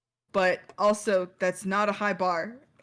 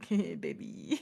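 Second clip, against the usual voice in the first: soft coo; 4 semitones lower, 6 dB quieter, slower than usual. Acted. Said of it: "he is like".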